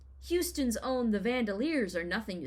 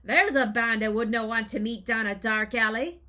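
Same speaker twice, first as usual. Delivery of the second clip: put-on Irish accent; 6 dB louder than usual. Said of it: "As a band's lead singer put it".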